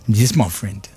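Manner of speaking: lightly put-on South African accent; a hint of South African on my friend. Host echoes the guest in a faint South African accent. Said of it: "I made it South African".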